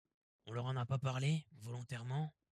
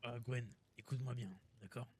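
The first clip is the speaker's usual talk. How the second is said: talking with mouth full. Real, not acted. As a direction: speak through a mouthful. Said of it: "je parle un peu la bouche pleine".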